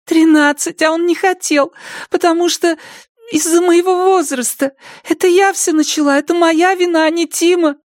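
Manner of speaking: put-on high young girl's answer. Zoe voiced. (тихий высокий голос девушки)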